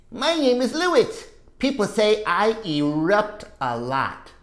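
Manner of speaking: put-on lively read-aloud to kids; story reading voice. A narrator's reading. Teacher reading Lewis's story to class, lively. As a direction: read it bright for the children.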